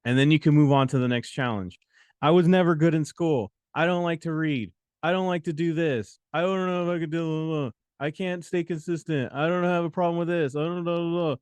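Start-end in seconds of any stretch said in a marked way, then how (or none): 2.2-11.4 mock whiny excuses; whiny excuse-maker. Coach mocking listeners' excuses, lightly whiny. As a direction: imitate someone listing excuses. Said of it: "all these things that you keep saying".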